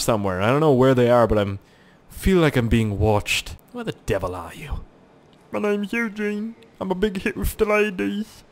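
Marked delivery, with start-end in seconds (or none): 5.5-8.5 swagger as a ladies' man; mock soldier voice.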